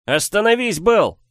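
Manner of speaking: high, loud desperate plea; pleading. Acted. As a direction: beg him to stop. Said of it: "умолял Сиговес".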